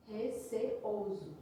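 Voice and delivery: RECEOSO drawn out slowly in separate syllables. Shown as a demonstration. Teacher repeating the word to show its division, RECEOSO slow, syllable by syllable. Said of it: "Percebam a divisão silábica de receoso".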